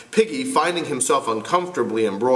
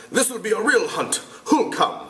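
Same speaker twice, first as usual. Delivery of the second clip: put-on boy voice; 9 semitones higher than usual. Jack voiced.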